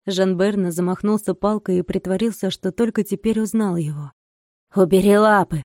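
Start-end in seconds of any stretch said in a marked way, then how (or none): 4.8-5.6 sharp loud command; shouting. Acted. Old man shouts at the monk to back off, loud. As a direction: bark it to get his hands off. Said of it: "закричал он".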